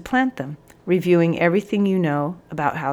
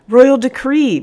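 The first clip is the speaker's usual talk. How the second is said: eager outburst, raised and loud; bursting in; 8 semitones higher, 9 dB louder, slower than usual. A narrator's reading. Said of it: "burst in the corporal".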